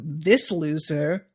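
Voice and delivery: mock American drawl; American accent. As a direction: drop into a lazy American accent for the word. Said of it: "I'm faking this accent".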